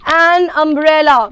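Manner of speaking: An umbrella said slowly and clearly; model answer drawn out. Shown as a demonstration. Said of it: "ये अपने साथ क्या ले लेगा?". (An umbrella को धीरे और साफ़ बोलना)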